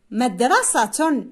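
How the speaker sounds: مدرسة with its ending fully voiced, -tun; final ta sounded. Shown as a demonstration. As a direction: say مدرسة slowly as madrasatun. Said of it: "يعيد نطق الكلمة مرة أخرى بحذف". (نطق مدرسة ببطء مع التاء والتنوين: مدرسةٌ)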